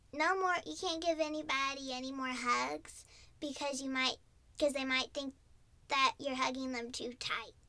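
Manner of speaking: ordinary talk, nothing marked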